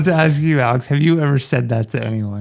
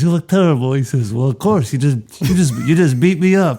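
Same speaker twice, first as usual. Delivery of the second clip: Brando voice. Retold or imitated. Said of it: "is he doing a Brando voice too?".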